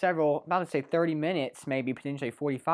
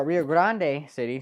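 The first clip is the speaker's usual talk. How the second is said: Spanish accent; 2 semitones lower than usual. Shown as a demonstration. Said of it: "I'm trying to get my Spanish accent there".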